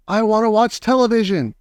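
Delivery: high, whiny squeak; a tiny boy throwing a fit; squeaky tantrum. A narrator's reading. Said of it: "he squeaked".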